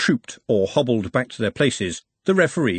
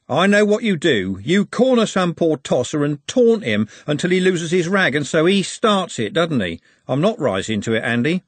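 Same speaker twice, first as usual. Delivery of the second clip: wary local lad; 6 semitones higher, 4 dB louder than usual. A narrator's reading. Trev telling Andy he won't rise to it, wary. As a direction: call out the bully, then refuse to bite. Trev refuses Andy's taunting.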